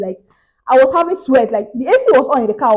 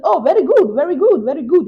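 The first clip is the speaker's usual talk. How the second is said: higher, eager approving voice; pleased scammer; 5 semitones higher than usual. Retold or imitated. Scammer praising her lie, higher and eager. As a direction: praise her like a greedy con man. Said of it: "He now said".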